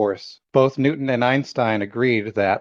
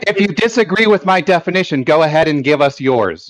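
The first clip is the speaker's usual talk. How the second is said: insistent challenge; 3 semitones higher, 4 dB louder than usual. Real, not acted. Repeats challenge over an interruption.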